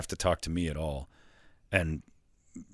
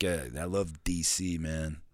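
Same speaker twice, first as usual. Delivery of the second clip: slow, softer mock coach drawl; Gruden-style voice; 2 semitones lower, 4 dB quieter, slower than usual. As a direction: player aping Gruden. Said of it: "Derek Carr's like".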